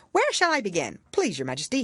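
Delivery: high, bright rabbit voice; White Rabbit. A narrator's reading. White Rabbit answering the jury, high and nervous.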